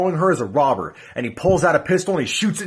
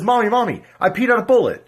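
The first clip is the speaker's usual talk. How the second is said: put-on excited child; 6 semitones higher, 3 dB louder than usual. Child runs to mother.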